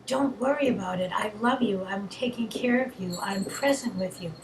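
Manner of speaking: a hint of tender comfort; voice of love. Shown as a demonstration. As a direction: reassure yourself like a gentle parent. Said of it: "This is the voice of love".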